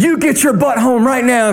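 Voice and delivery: P=A; angry mom. Retold or imitated. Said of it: "She said".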